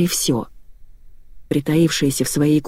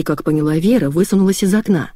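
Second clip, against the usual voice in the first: usual speaking voice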